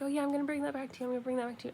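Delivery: mock casual promise; breezy promise. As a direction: toss it off as an easy promise. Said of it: "every time I was like".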